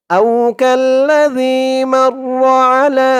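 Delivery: melodic tajweed recitation of the verse; measured Quranic chant. Shown as a demonstration. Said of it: "আয়াতের শুরু ওই পৃষ্ঠার ওখান থেকে ধরুন".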